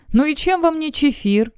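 a tired half-joke through a smile. Acted. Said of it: "выдавил с усталой улыбкой". (с усталой улыбкой, выдавливая)

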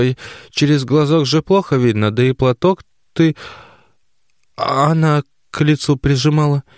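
put-on a flustered old mother; mother explaining to daughter, flustered and high. A narrator's reading. Mother's voice held in reading.

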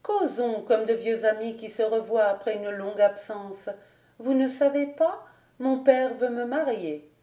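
mildly bright, forced lightness; a cheerful tone. Acted. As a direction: put on a light, easy tone. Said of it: "elle reprit d'un ton enjoué".

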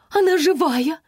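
high loud excited yell; excited cry. Acted. Aunties rushing at the writer with a loud excited shriek. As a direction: shriek in fan delight. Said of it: "с воплем".

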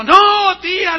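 loud, high cry of alarm; loud, high cry of protest at his aunt; shouted no. Retold or imitated. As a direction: yell it out in dismay. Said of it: "Y yo pegué el grito".

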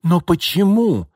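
high, loud, drawn-out protest; acted wail of protest; exclaiming. A narrator's reading. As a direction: cry out the question as an upset girl. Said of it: "воскликнула девушка".

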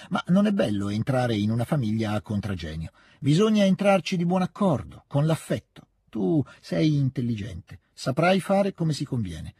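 lightly voiced old lady, firm then coaxing; advising old lady. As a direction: give firm advice, then coax gently. Advising Natascia about the prince. (consiglio deciso poi dolce)

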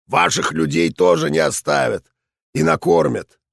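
gruff, raspy veteran voice; hoarse old soldier ranting on; raspy old general. Acted. General gives directions.

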